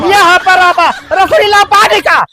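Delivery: urgent calling out. Acted. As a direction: call out urgently for the rope. (रस्सी के लिए ज़ोर से पुकारना)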